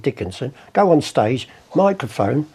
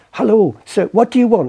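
higher, brighter mock shopkeeper voice; friendly shopkeeper welcome, voiced higher; shopkeeper greeting; 8 semitones higher, 3 dB louder than usual. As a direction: lightly play the eager shopkeeper.

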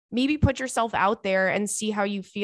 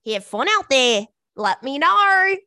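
sassy brush-off; 6 semitones higher, 6 dB louder, slower than usual. Retold or imitated. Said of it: "I would say".

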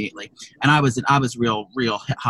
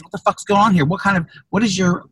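retold yell; 5 semitones higher than usual. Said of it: "I had to yell at the man".

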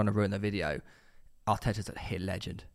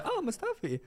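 put-on German accent; 4 dB quieter than usual. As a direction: call his name out in an overdone German accent. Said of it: "in a German accent".

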